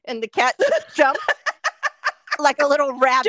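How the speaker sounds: talking through real laughter; laughing. Real, not acted. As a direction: crack up while telling it. Cracks up telling the cat's jump.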